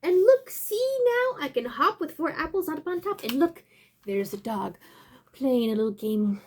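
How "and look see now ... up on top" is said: boastful animal. Acted.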